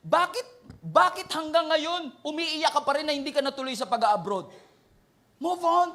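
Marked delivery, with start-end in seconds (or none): 5.4-5.9 high, pushed command; firm urging. Real, not acted. Pastor urging grieving listeners, firm high command. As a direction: push them to move on.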